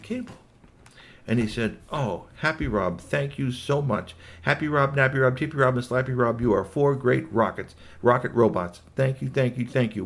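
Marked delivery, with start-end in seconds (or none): 1.9-10.0 a small polite robot gushing thanks. Acted. Robot thanking the rocket robots, higher and louder. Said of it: "a very polite Agatsuri Ninja robot".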